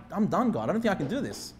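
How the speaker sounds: low, soft admission of defeat; acted weary surrender, voice dropped; resigned. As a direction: give up quietly to God. Imagines himself giving up to God.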